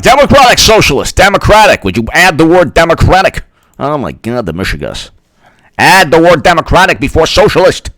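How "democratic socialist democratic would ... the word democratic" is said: mock Bernie. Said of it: "he was like".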